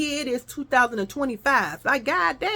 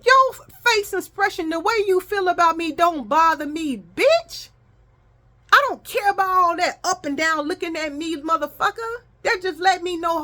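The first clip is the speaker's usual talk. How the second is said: mock telling off; 6 semitones higher than usual. Vlogger telling off the woman at the hospital, sassy scolding. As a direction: throw it at her with attitude.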